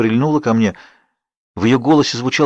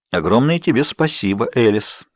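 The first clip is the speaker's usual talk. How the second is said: ordinary delivery, nothing marked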